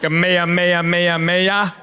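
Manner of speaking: savoring each Hawaiian vowel in "mea"; "Ka mea, mea" sung out with open Hawaiian vowels; lilting Hawaiian sounds. Shown as a demonstration. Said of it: "I love the words, all the vowels".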